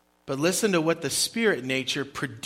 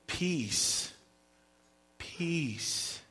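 hushed, softer movie-trailer "Peace."; dramatic movie voice; 9 dB quieter than usual. Pretend. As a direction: breathe "Peace." out softly like a film line. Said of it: "Sounds like from a movie".

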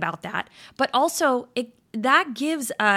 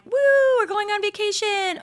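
high, loud excited cheer; excited whoop; 12 semitones higher, 5 dB louder than usual. Retold or imitated. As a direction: whoop it like vacation just started. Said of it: "we're like".

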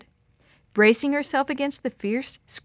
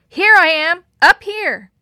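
calling out; 8 semitones higher, 13 dB louder than usual. Acted. Calling to men in flood.

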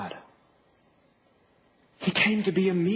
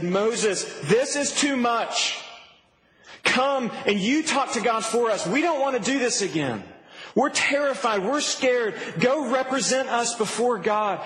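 raised, pleading plea to Moses; crying out; 3 semitones higher than usual. Retold or imitated. Israelites begging Moses to speak to God, mildly frightened. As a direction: beg Moses like frightened people. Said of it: "they cried out and said".

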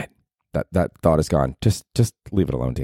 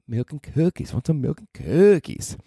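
very high falsetto sing-song offer; doting mom figure; 10 semitones higher than usual. Acted. Mom figure offering milk and cookies, high falsetto coaxing. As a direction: coax in a squeaky put-on mom voice.

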